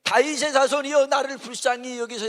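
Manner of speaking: a hint of a pleading blind beggar; mock beggar's cry. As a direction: call out for mercy, lightly acted. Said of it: "했더니".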